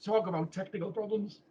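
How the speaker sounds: hoarse and breathy after coughing; raspy whisper. Real, not acted. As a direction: croak it out quietly, throat sore.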